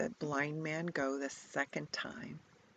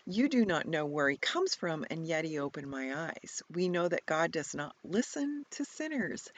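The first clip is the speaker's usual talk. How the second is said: louder, cheeky comeback; snarky; 4 dB louder than usual. Acted. Healed blind man to Pharisees, mild snark. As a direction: turn their words back on them. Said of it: "Kind of snarky, actually, I think".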